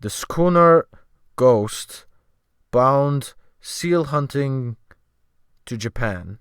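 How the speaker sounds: put-on slow, methodical sailor with a Scandinavian accent; slow Scandinavian English. The sailor answering the newcomer, slow with a Scandinavian accent. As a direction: grope for each English word slowly.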